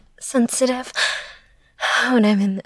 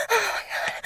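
high but much softer, breathy gasp; 8 semitones higher, 8 dB quieter, much faster than usual. Acted. Gasping to her partner, soft high exclamation.

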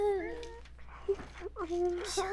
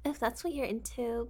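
ordinary talk

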